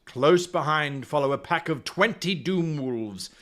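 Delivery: storyteller setting the scene; story narration. A narrator's reading. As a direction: narrate it like an adventure tale. Reads gamebook aloud.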